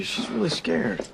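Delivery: dropped to a soft whisper; urgent hushed aside. Acted. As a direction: whisper it so she won't hear. Protective plea for scared friend.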